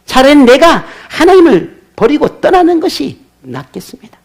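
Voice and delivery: a sulking prophet giving God an ultimatum; Jonah's defiant speech. Retold or imitated. 설교자가 요나를 대신해 하나님께 대들며, 약간 높인 원망조로. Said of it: "오만한 태도가 이 속에 감춰져 있다".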